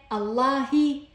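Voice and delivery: الله said allahi, final hi; voweled h ending. Shown as a demonstration. Teacher adding vowels for students, الله ending in hi. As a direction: end الله on a clear hi. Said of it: "خلي لها حركات".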